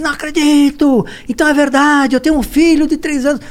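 hammed-up surprise, voice up high; mock astonishment. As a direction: play up the shock of the news. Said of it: "Eu falei".

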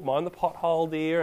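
lightly voiced careful old grandma. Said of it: "like a grandma down the street".

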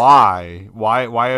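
loud, incredulous mock protest; retold exclamation. Podcaster retelling his reaction to the show, loud exclamation. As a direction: blurt out the question loudly, re-enacting disbelief.

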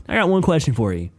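high, loud scolding; coach laying into kid. Retold or imitated. Coach scolds a student for toys in class, laying into him. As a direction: build to a loud, indignant demand. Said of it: "He starts laying into this kid".

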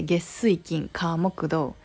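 weekdays "月水金火木土" in Kansai pitch; Kansai intonation. Shown as a demonstration. Demoing the Kansai way to a listener, Kansai lilt. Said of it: "in 関西弁, we say".

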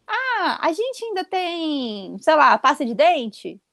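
high, slow, clueless husband voice; mock high drawn-out husband question. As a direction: drag it out like a helpless husband asking. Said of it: "aquela clássica pergunta que o marido sempre faz".

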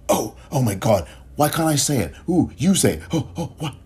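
a lightly voiced, pleading put-on voice; mock the eager begger, half-hearted parody; mild mocking impression of someone begging to be allowed; mocking whiny imitation. Mocking white people begging to say it.

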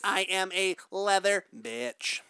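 slow, stiff robot voice. Pretend. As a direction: speak like a sex robot. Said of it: "I like talking like a robot".

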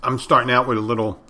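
talking while eating chips; words round a mouthful of chips; mouth full. Real, not acted. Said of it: "Sorry, I'm eating potato chips".

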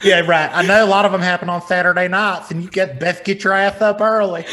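lightly voiced scolding Southern aunt; a hint of nagging church aunt, slightly played up. Aunt warning nephew about Sunday church, lightly scolding voice.

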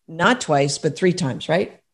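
words between sips of tea; while sipping a drink. Real, not acted. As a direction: talk around a mouthful of tea. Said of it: "Pardon me, I'm drinking my tea".

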